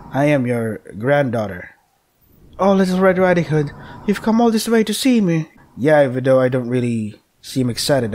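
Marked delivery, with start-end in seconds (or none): 2.6-5.5 higher sweet grandma voice; reading the grandmother's line, sugary. Pretend. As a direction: coo like a sweet old granny.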